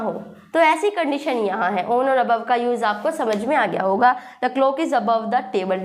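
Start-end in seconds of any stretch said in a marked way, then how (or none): 4.4-5.8 each word slow and separate, dictating to a class; slow teacher dictation; slow model sentence. Shown as a demonstration. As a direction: spell it out slowly like a teacher. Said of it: "मेज के ऊपर है".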